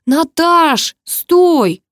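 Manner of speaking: high, urgent shout. A narrator's reading. Groom shouts after his runaway bride, high and urgent. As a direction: yell after someone to stop. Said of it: "прокричал".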